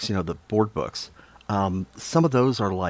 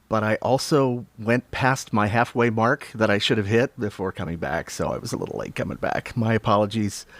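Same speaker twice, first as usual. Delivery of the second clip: breathless after a long walk; slightly winded, catching breath. Real, not acted. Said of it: "if I'm a little out of breath".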